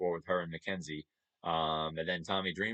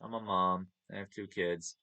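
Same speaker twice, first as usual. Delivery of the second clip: soft, calm and modest; 4 dB quieter than usual. Retold or imitated. A fan retells Dawn Marie calmly telling him about her kids. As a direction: say it gently, proud but quiet. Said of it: "just very calmly".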